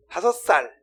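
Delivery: put-on a touch of a child's voice; child answering. Child answering a stranger, light childlike voice. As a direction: chirp the age back. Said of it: "애기들이 그래요".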